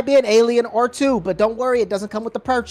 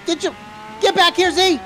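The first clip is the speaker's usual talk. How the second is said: calling after someone; 8 semitones higher, slower than usual. Pretend. Calling after fleeing car thief.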